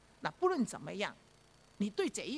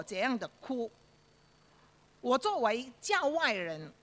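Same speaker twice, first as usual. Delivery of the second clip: solemn preacher's rebuke. Retold or imitated. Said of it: "他说".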